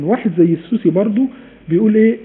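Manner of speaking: normal talking voice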